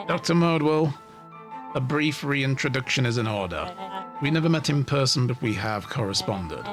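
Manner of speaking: smug villain monologue. Acted. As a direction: savour the reveal like a mastermind.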